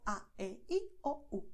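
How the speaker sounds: "A", "E", "I", "O", "U" without English glides; Spanish vowels. Shown as a demonstration. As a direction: recite "A, E, I, O, U" as five pure Spanish sounds. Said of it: "Use these five sounds".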